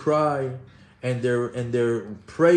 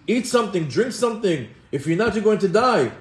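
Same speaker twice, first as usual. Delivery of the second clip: mothers' urging; 6 semitones higher, 3 dB louder than usual. Retold or imitated. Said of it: "the mothers are telling the children".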